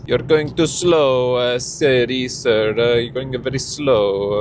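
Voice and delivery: loud, slow, exasperated telling-off; annoyed at slow driver. Real, not acted. Driver shouting at slow car ahead, exasperated.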